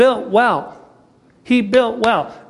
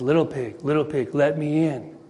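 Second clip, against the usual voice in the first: wolf at the door; 3 semitones lower, 5 dB quieter than usual. Retold or imitated. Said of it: "And he says".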